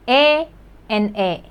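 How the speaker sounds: "에" and "에" both as the same eh vowel; identical vowels. Shown as a demonstration. Teacher showing two spellings sound the same, identical vowels. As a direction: say "에" twice with one identical eh sound. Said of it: "they pronounce the same".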